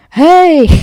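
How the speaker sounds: loud, high, bright greeting, put on; forced cheerful hey. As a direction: burst into an overeager hello. Acting upbeat greeting on call.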